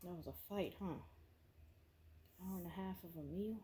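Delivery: hushed whisper, keeping the house asleep. Real, not acted. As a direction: whisper so you don't wake anyone. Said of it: "I know I'm whispering".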